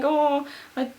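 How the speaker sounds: retold tearful confession; mock bawling. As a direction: confess as if in tears, hammed up. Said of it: "and I'm bawling".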